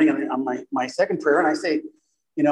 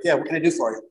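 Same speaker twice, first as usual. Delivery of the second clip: mock snarky reply; faster than usual. Husband answering his wife at the office door, snarky. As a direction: toss it off with grudging attitude. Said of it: "giving her the snarky attitude".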